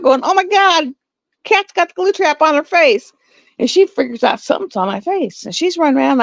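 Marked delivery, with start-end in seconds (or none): 0.2-3.1 high-pitched retold panic; freaking out. Owner sees glue trap on cat's face, retold high panic. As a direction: reenact alarm, voice pitched up. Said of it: "freaking out".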